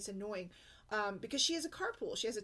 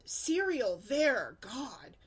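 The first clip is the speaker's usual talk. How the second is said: bratty retort; 3 semitones higher, 6 dB louder, much slower than usual. Retold or imitated. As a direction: snap back like an annoyed kid. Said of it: "she's like".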